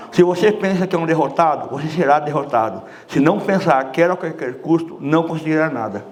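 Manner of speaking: words articulated carefully round an obstruction; pen-in-mouth diction. Shown as a demonstration. Coach demonstrating the diction exercise to the class, pen in mouth. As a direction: recite with a pen between the teeth. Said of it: "atrás dos caninos".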